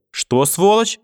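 high, loud furious yelling; furious shout. Acted. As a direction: scream at her in rage. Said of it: "крикнула бабушка". (яростный крик)

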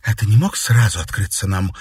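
distrustful question. A narrator's reading. Katerina questioning her father, distrustful. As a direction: she does not quite believe him. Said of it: "недоверчиво спросила Катерина".

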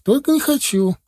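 put-on very high, stubborn child's cry; boy's yell. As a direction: cry out the refusal in a kid's high pitch. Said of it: "крикнул мальчик". (упрямый мальчишеский выкрик)

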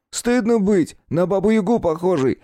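высокий дразнящий голос подростка; огрызнуться, передразнивая старуху; огрызаясь. A narrator's reading. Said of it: "огрызнулся Клюй". (Клюй огрызается на бабульку высоким издевательским голосом)

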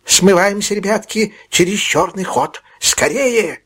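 put-on hustle the boys out; old fence shouting to run; urgent old man. Fagin urging boys to flee.

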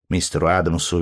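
usual speaking voice

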